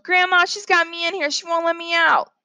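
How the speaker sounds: put-on high-pitched child's cry for Grandma; tattling yell. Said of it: "came out the door and yelled".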